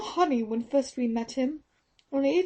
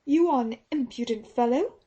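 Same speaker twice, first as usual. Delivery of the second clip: nurse snapping in anger; indignant cry; 5 semitones higher than usual. Acted. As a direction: Teresa rebukes Holmes for accusing her mistress. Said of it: "cried Teresa".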